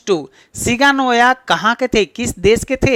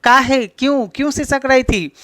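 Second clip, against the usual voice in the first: higher-pitched mock sob; demonstrated sobbing; 5 semitones higher than usual. Shown as a demonstration. Teacher showing students how the mother sobbed, mock sobbing. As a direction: act out sobbing, lightly. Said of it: "ऐसे करके".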